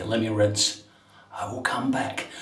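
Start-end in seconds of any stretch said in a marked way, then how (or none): 1.3-2.3 soft whisper. Real, not acted. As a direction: whisper it off-mic. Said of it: "I've got my London accent on".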